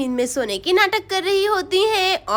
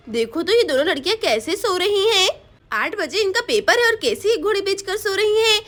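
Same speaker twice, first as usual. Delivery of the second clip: a lightly voiced mum, raised and insistent; mother waking the kids. Mum tries to wake the two girls for school, insisting.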